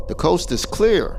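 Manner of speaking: high, drawn-out all-clear call. Acted. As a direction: call it slowly to friends outside. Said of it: "Tracy called out and said".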